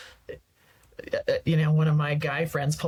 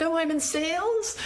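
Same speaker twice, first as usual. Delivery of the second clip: mocking echo; 10 semitones higher than usual.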